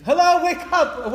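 high, loud, stretched-out rousing shout; loud wake-up call. Retold or imitated. Preacher answering a depressed caller, loud rousing voice. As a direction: jolt the listless caller awake. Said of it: "Why are you talking like this?".

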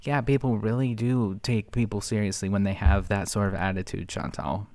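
dry sarcasm, voice falling at the end; sarcastic. Real, not acted. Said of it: "I'm being sarcastic".

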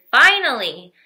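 loud triumphant cheer. A narrator's reading. Yuri cheering as he is freed. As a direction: throw it up in joy.

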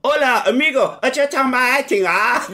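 high comic Spanish drifting into Asian; failed Spanish accent, pitched high; Spanish accent slipping Asian. Shown as a demonstration. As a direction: start mock Spanish and lose it to Asian. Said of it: "I can't hold an accent".

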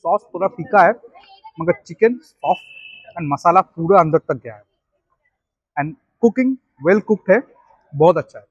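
speaking between bites; talking while chewing. Real, not acted. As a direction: mouth partly full of food. Seen 0: Took a bite at -7; jaw working, food held near mouth throughout.

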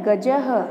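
गजः with a clear h ending; visarga as ha. Shown as a demonstration. Teacher starting the second row for pupils, visarga as ha. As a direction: finish गजः on an audible "ha". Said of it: "एक एक करके इन शब्दों का उच्चारण करती हूँ".

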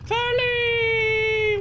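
loud high call across the house; shouting a name. Real, not acted. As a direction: yell her name to get her attention. Calling out to his sister.

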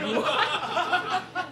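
high, loud laughing disbelief; shocked. Retold or imitated. A guest stunned by the question, laughing high and loud. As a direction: squawk it out in shock.

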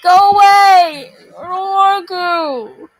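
loud, slow frightened plea; scared pleading. Real, not acted. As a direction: beg the monster to leave. Scared of game enemy.

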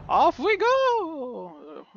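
slow, high drawn-out call; excited cheer. Real, not acted. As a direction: stretch every word out with glee. Repeats the start cheer.

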